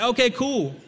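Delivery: high laughing okay; mock-casual retold self; laughing reply. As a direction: shrug it off with a laugh. His own reply, retold.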